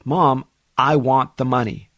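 demanding son. Retold or imitated. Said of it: "starts getting a bit more angry".

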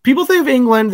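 urging people not to overlook English food; insistent. Real, not acted. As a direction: drive the point home with excitement.

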